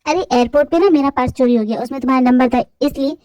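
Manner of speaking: put-on young man's voice. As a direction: scold your best friend fondly.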